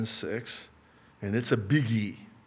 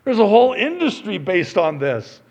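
loud, higher-pitched sermon delivery; forceful preaching; 9 semitones higher, 10 dB louder than usual. Real, not acted. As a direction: drive the point home to the congregation. Preaches, voicing objections.

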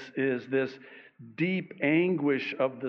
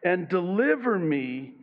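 pleading cry to God; 2 semitones higher, slower than usual. Acted. Psalmist crying out to the Lord, slow raised plea. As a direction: cry out to the Lord for deliverance, drawing it out. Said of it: "he cries out to the Lord and he says".

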